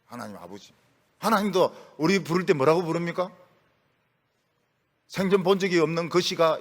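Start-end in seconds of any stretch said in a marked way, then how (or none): 0.1-0.7 hushed prayer. Shown as a demonstration. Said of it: "이렇게 기도합니다".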